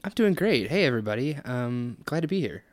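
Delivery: chirpy cheerful puppet greeting; bright, eager hello to everyone; naive optimism. Real, not acted. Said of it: "You sound like a really cheerful puppet".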